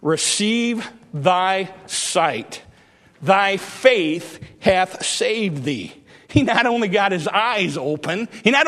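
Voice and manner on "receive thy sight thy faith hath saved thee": Jesus speaking. Acted. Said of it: "And Jesus said".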